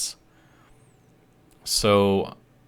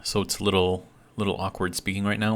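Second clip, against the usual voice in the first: slightly slurred from a bitten tongue; talking around a sore bitten tongue. Real, not acted. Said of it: "if it sounds like I'm slurring my words".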